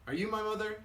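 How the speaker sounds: high, hopeful little-bird voice; lifted, wondering baby bird; baby bird's question. Acted. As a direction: ask it high, like a lost chick. Baby bird asks the cat.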